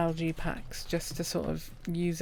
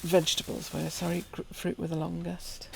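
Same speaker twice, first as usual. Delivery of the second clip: talking through hiccups; interrupted by hiccups. Real, not acted. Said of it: "I'm hiccuping quite a bit".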